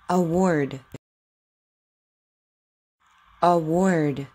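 crisp, exaggerated W in each word; over enunciating. Shown as a demonstration. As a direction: say it slowly for a child to copy. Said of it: "Just repeat after me".

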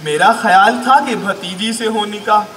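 projected, measured comic verse; emphatic Urdu poetry delivery; mushaira recitation. Acted. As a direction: declaim each line with small pauses.

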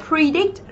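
"predict" softly and slowly, as pre-DICT; stress on second syllable. Shown as a demonstration. Teacher showing the stress, slow soft "predict" stressed on DICT. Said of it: "Trọng âm của chúng ta cũng giêm tiếp thứ hai".

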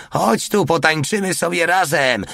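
high, calling voice; yelled invitation. A narrator's reading. Porta inviting the fat woman to dance, yelling. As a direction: holler a cheeky invitation from afar. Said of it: "wrzasnął".

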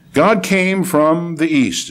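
stately Bible reading; scripture reading. Acted. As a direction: proclaim it with measured weight. Reads scripture aloud.

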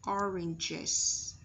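"oranges" ending in an iz sound; careful model "oranges", ending -iz; ES read as IZ. Shown as a demonstration. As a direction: pronounce the last syllable of "oranges" as iz. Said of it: "I S ở đây sẽ được đọc là I Z".

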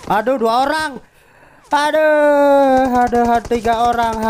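high loud alarmed aduh; alarmed cry. Real, not acted. Suddenly facing three enemies.

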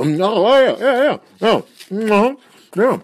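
high, loud, hurried agreement; flustered cover-up. Acted. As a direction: snap out of a reverie. Catches himself, covers up.

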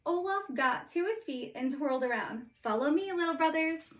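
story narration. A narrator's reading. Reads Frozen story aloud.

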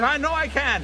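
a touch of eager excitement; little fellow keen to prove himself; little guy answering the Texan, mildly excited. Retold or imitated. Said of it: "all excited".

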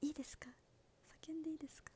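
hushed unvoiced whisper; playful breathy whisper. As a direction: whisper it like a secret. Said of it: "フライングで、".

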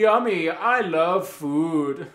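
high, loud, slow drooling voice; hammed-up foodie. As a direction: savor every word, high and loud. Hammy food-lover voice.

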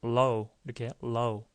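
"low" with tongue stretched and touching behind the upper teeth. Shown as a demonstration. Teacher models word for students, clear L. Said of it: "쭉 피니까 여기다 붙여서".

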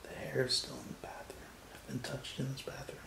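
hushed whisper in a creepy house. Real, not acted. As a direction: whisper so nothing hears you.

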